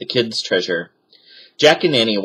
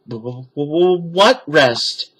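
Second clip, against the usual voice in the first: frightened stammer; 6 semitones higher, slower than usual. A narrator's reading.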